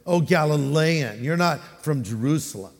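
condescending put-down. Acted. City dweller to a Galilean, mildly condescending. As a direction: talk down to an outsider. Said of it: "A little bit of a put down".

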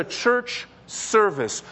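"service" set apart and emphasized; "church service" with the weight on "service"; stress on SERVICE. Shown as a demonstration. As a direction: lean on the word "service". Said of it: "with the emphasis on the word service".

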